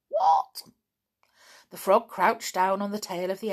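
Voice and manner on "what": indignant what. Real, not acted. Reader reacts to the plan.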